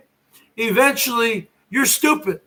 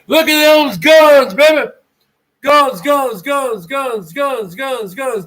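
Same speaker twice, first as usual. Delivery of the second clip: hype shout; 5 dB louder, slower than usual. Pretend. Hyping lumberjack muscles.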